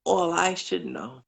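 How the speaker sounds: a caller reciting an inspirational poem; poem recital. Acted. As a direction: recite it like a heartfelt blessing.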